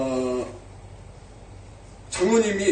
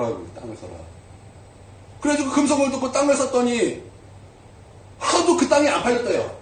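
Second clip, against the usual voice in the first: ordinary delivery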